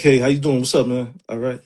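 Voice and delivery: flat, toned-down work greeting; monotone voice. Retold or imitated. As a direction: drain the color from it. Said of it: "I speak in a monotone voice".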